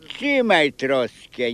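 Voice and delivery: slow, deliberate "trzymaj troskę"; slow insistence. Retold or imitated. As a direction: drag out "trzymaj troskę" to press the point.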